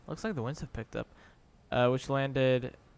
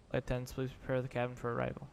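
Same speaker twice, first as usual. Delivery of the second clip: airport announcement; 5 dB quieter than usual. Pretend. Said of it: "this is your captain".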